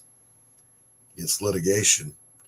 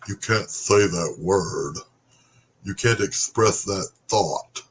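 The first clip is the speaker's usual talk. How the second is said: mock scolding; 5 dB louder, slower than usual. Mimicking censors' rules.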